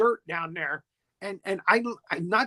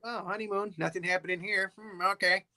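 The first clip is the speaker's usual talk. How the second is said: mock musing; 8 dB quieter than usual. Voicing the doctor's thoughts.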